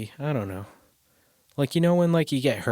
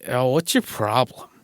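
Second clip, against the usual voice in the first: a louder, snippy mock mom; annoyed mom; 2 semitones higher, 6 dB louder than usual. Imitating his mom brushing off a hurt kid, snippy. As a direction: toss it off like an irritated mother. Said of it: "she's more like".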